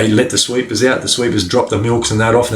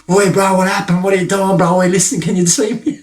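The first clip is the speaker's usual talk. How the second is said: calling out; 9 semitones higher than usual. Retold or imitated. Inmates calling across yards.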